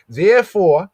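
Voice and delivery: "Therefore" punched high and loud; stressed Therefore. Shown as a demonstration. Preacher stressing "Therefore" for the congregation, high and loud. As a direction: hit "Therefore" hard and high. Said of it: "notice what Rachel says".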